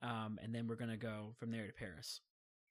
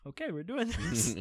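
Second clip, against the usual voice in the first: excited; 6 semitones higher, 6 dB louder than usual. Retold or imitated. Tipsy friends agree to shots.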